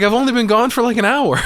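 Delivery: high, loud mock disbelief; incredulous outburst. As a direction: squawk it in exasperated disbelief. Retold Tammy's incredulous outburst.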